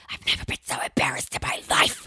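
voiceless, seething whisper; angry whisper. Retold or imitated. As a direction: scold under your breath. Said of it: "That angry whisper".

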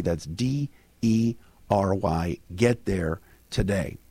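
hoarse, voice nearly gone; raspy whisper. Real, not acted. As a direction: rasp it out with no voice. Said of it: "I have no voice".

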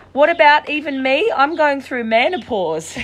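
reading it aloud through giggles; high and loud, cracking up; laughing. Retold or imitated. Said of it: "I can't stop laughing".

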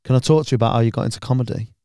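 fast unvoiced whisper, leaning in; creepy whisper. Comic retelling a fan's creepy whispered question. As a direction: whisper it quickly like an odd fan. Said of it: "He just looks at us and goes".

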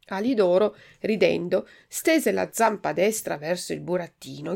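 ordinary delivery, nothing marked

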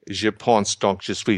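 self-consciously bad French accent on Je pense, donc je suis; awkward English-speaker French; horrible French accent. Shown as a demonstration. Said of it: "you're gonna hear my horrible French accent".

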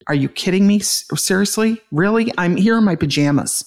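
are you kidding me, said with rising outrage; annoyed protest at being interrupted; exasperated. Retold or imitated. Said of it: "I was so angry".

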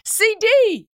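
high, loud, playful "C D!"; loud chummy greeting. Retold or imitated. Greeting Cardinal Dolan, a loud breezy nickname. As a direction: call out a nickname cheerfully. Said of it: "instead of greeting him properly".

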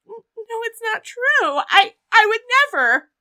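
high-pitched, wailing denial; protesting wife, hammed up; mock pleading wife. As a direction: plead innocence in a high, overdone voice. Retold tearful denial by wife.

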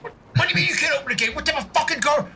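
high, fast indignant rant; indignant rage. Acted. Player berates the guard over the gate, hammed-up rage. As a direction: berate him, half laughing.

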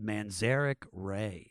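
words read in reverse order, slow; backwards speech. Shown as a demonstration. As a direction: say the sentence back to front, slowly. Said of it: "if you say that backwards".

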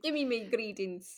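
put-on playful Irish accent. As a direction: toss it off in an Irish lilt. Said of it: "You did that so good".

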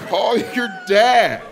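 put-on high, long-drawn white-girl phrase; confident white girl. Comedian answering pregnancy news, mimicking confident white girl. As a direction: dismiss it with breezy, stretched-out confidence. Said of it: "That is a white woman".

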